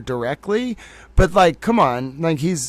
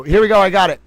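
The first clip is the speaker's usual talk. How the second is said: sudden loud, higher burst; excited find; 4 semitones higher, 8 dB louder, faster than usual. Real, not acted. Host finds the post for viewers, excited. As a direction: pipe up on finding it.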